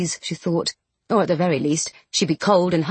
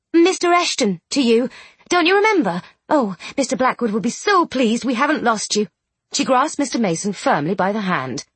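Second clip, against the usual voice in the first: excited; 4 semitones higher than usual. Acted. Charlotte eager.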